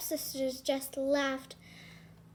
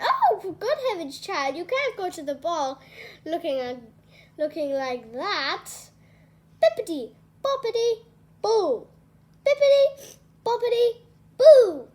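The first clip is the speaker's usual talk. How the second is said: cheerful fairy godmother chanting loud; fairy godmother casting; 3 semitones higher, 8 dB louder than usual. Acted. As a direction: fuss over the rags, then sing the spell out. Godmother scolding then casting spell.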